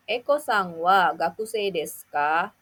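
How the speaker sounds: rising question intonation on "desu ka"; rising question tune. Shown as a demonstration. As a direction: end on a rise at ka. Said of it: "jangan lupa untuk menaikkan intonasi pada akhir kalimat".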